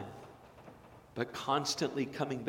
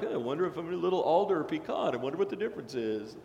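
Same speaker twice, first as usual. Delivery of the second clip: amused musing; 3 semitones higher, faster than usual. Retold or imitated. Inner thought at store.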